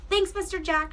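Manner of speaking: put-on girl thanking the custodian mid-sprint, mild yell. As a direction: call back over the shoulder while running. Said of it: "she yelled as she sprinted".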